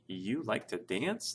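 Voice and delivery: slow question, "You" set apart and emphasized; stress on You. Shown as a demonstration. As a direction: lean on "You" in a surprised-style check-back question. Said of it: "with the emphasis on the you part".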